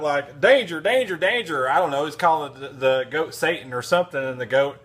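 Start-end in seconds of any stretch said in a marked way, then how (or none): 0.4-1.7 high, louder barked words; dog bark imitation. Man voicing the bulldog's barks as words, high and louder. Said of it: "just like".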